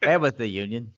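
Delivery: mock protest shout; mock outrage. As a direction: bellow the question like a rally cry. Mocking repeat of joke.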